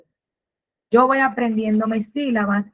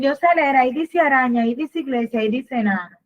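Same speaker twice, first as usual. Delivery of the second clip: put-on child reading proudly; 3 semitones higher, faster than usual. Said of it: "Ellos te dicen".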